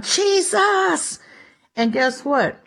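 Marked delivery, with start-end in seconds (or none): 0.0-1.2 cry for help. Retold or imitated. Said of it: "He cried out".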